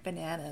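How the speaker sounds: "banana" with a short American middle vowel, ba-NAN-uh; American pronunciation. Shown as a demonstration. South African vlogger trying what feels weird, American pronunciation. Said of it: "feels so weird for me to even say".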